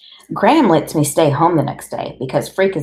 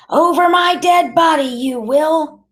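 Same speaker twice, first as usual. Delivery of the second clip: high, loud, outraged grandmother; high-pitched furious protest; tearful yelling; 12 semitones higher, 5 dB louder than usual. A narrator's reading. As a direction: yell it big, on the edge of tears. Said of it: "That's Graham yelling".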